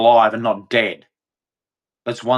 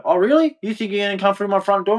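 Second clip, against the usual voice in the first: defiant homeowner; 7 semitones higher, faster than usual. Retold or imitated. Acting homeowner facing intruder.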